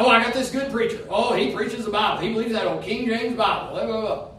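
a light mock voice of a smug churchgoer, running quick; lightly voiced self-satisfied church member. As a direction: breeze through the boasts like a complacent believer.

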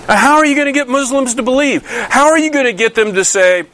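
high, pleading rhetorical question; rising exclamation. Real, not acted. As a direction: throw the question up high in disbelief. Preacher's rhetorical challenge.

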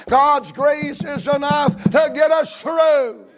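rising gospel preaching cadence. Acted. Pastor preaching to his church, full force. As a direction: preach it out to the congregation.

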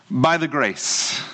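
put-on slow, gentle Indian accent on a fond quote. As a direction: imitate a colleague's Indian accent, slowly. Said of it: "in her wonderful Indian accent".

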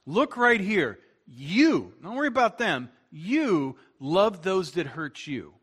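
urgent teacher calling disciples to attention; Jesus. Acted. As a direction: pull their eyes back to you, leaning hard on "you". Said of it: "like he's looking at his disciples going".

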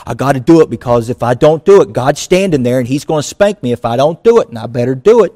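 quick, nervous inner voice; lightly voiced anxious believer; mock fearful believer. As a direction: rush it like a scared kid dodging a spanking. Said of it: "If your mind goes straight to".

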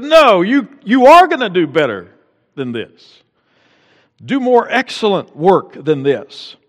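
loud, high mock mother insisting; preacher voicing mother's demand; insistent mom. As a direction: press it like a firm mom. Mom insisting son do better.

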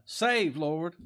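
high loud cry of save. Retold or imitated. Preacher voicing David crying to God, a loud desperate cry. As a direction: call it out desperately, pitched high. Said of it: "David cried out".

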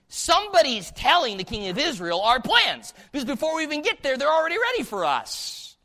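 a furious king rattling off his suspicion; angry king. Acted.

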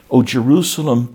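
loud, rising lament call on O Jerusalem; lamenting cry. Retold or imitated. Jesus crying out over the city, loud lament. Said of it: "he wept".

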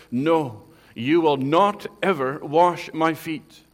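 loud, slow, firm no; emphatic refusal. Retold or imitated. Peter refusing to let Jesus wash his feet, loud and emphatic. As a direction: refuse him flat out, hammering each word. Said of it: "Peter emphatically says".

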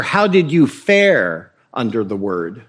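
lightly voiced churchgoer asking gravely; Puritan asking. One Puritan asking another after church, lightly voiced and solemn. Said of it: "The Puritan would ask one another".

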